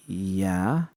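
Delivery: «Yeah?» с вопросительным подъёмом в конце; a wary questioning «Yeah?». Acted. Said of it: "more of a question than an answer".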